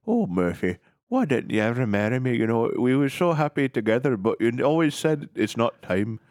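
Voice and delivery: a hint of a weary old wife; lightly voiced wife. Acting the wife's lament.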